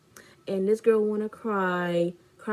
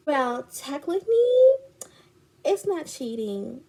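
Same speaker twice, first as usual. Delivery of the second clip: higher put-on technicality; mock quibbling friend; 6 semitones higher, 4 dB louder than usual. Friend excuses the kiss, mock quibbling. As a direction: mimic a friend splitting hairs.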